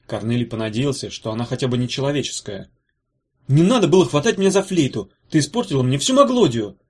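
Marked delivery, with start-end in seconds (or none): 3.5-6.8 complaining. Acted. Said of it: "пожаловался он".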